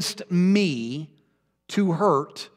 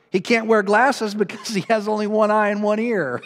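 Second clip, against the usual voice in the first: laughing; 2 semitones higher than usual. Real, not acted. Punchline with laughter.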